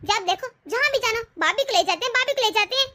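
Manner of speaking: indignant, rising protest; wife objecting to husband bringing sister-in-law, angry; angry complaint. Acted. Wife quarrels with husband Arif.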